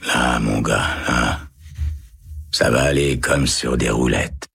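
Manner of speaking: low, gentle soothing; murmuring kindly. Acted. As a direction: soothe him like a frightened child. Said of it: "en murmurant". (murmure doux et grave)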